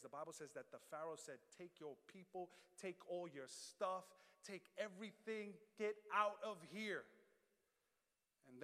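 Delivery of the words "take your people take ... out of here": building, emphatic order to leave; exasperated dismissal. Acted. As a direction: lightly act a ruler sending them off. Acts Pharaoh ordering them out.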